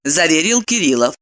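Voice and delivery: ordinary delivery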